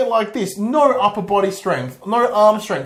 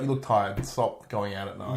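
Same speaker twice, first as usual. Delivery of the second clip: mock Waller; 9 semitones lower, 10 dB quieter than usual. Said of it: "she's like".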